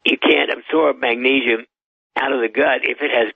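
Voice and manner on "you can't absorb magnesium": usual speaking voice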